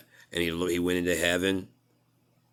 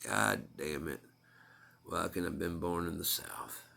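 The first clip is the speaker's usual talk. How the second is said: put-on Jesus complains he was not born in the South, in a Southern accent; country accent. Jesus grumbles that his listeners cannot understand him, in a Southern country accent. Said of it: "Jesus with a country ass accent".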